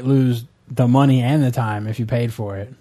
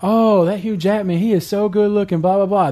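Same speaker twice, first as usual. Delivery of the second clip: lightly mocking swoon, pitched up; gushing fans; 5 semitones higher, 3 dB louder than usual. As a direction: imitate women gushing over a heartthrob. Women gushing over a dreamy actor.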